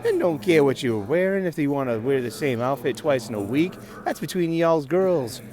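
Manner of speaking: loud, exasperated guy; hammed-up annoyed man yelling; ranting man voice. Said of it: "and a man goes".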